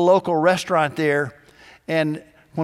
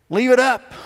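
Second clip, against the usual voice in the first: higher, louder fed-up retort; exasperated shout; 7 semitones higher, 6 dB louder than usual. Retold or imitated. Fred losing patience with Buck, louder. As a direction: throw up your hands at him.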